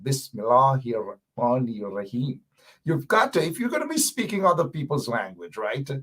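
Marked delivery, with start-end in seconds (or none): 0.0-2.4 measured, practised Arabic pronunciation of "Bismillahir Rahmanir Rahim"; linguist-style Arabic. Shown as a demonstration. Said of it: "like that how I say".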